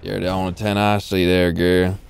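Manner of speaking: laid-back southern pickup line; mock southern charmer. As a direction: put on a Southern US twang to flirt. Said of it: "the southern voice is so, uh, fitting for those".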